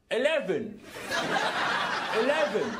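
put-on unconvincing English accent from a Scot; attempted English accent. Man trying to make the lift understand, bad English accent. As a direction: put on a Dick Van Dyke sort of English. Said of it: "Try an English accent".

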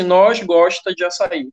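slowed example of faulty grammar; demonstrating an error. Shown as a demonstration. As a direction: lay out the wrong sentence slowly for learners. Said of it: "Quando eu digo assim". (exemplo de frase errada, mais devagar)

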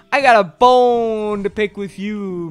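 slow, drawn-out challenge; mock confrontational. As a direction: stretch it out like a playful threat.

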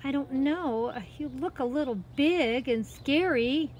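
put-on high, innocent girl's voice; hesitant story girl. Girl tells cat it looks scary, hesitant. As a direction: answer high and a little hesitant.

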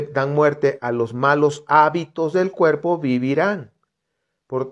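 loud, measured Bible reading; scripture reading. Acted. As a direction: read the verses out like preaching. Reads scripture aloud. (lectura bíblica proclamada)

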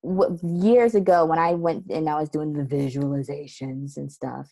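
usual speaking voice

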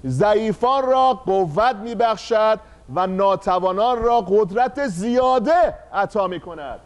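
slow, solemn reading of scripture aloud; slow verse recitation. Shown as a demonstration. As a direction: read the verse together slowly. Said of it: "حاضرید با هم اینو بخونیم". (خواندن آهسته و باوقار آیه)

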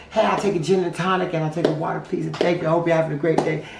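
happy attitude. Retold or imitated. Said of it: "That lady who had a happy attitude".

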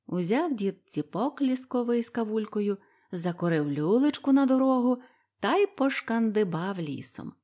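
usual speaking voice

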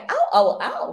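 a light, playful take on the catchphrase; imitating Rosmar. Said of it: "alam mong si Rosmar kapag ka".

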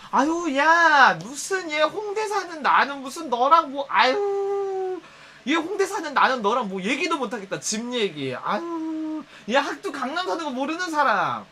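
overdone flattery. Retold or imitated. Praising a bragging friend to shut them up. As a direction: gush over them, stretching the sighs. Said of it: "그러니까".

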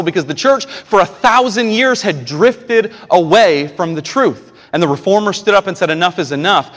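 loud, high, driving sermon delivery; full-force preaching. Acted. Pastor urging the church to fix eyes on Jesus, full-force preaching.

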